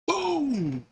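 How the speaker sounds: high, sudden shouted boom; gunshot boom. Retold or imitated. Narrator shouting the shot in the story, sudden high yell. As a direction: blast it out like the gunshot.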